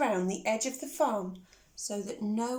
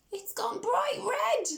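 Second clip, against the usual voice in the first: hushed whisper to the little listeners; 12 semitones higher than usual. Acted. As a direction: whisper it like a secret. Narrator aside to children.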